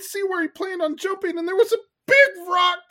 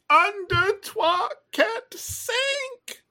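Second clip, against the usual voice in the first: dramatic announcement; 2 semitones higher, much slower than usual. Acted. Announces sinking, slow and dramatic.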